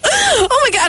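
high, pained gasp of words; high, shocked oh my God. Retold or imitated. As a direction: react to the shot's pain. Pain of the shot.

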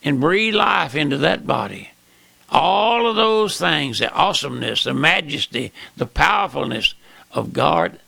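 fervent sermon, rising and falling; preaching. Acted. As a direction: preach it to the flock.

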